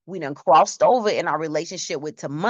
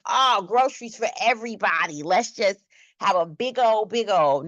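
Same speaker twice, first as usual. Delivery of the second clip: lightly raised, carefree spending voice; giddy splurge; 3 semitones higher than usual. Retold or imitated. To the congregation, mocking her own good-mood splurge, giddy. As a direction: gush like you feel great at the store. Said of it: "I'm like".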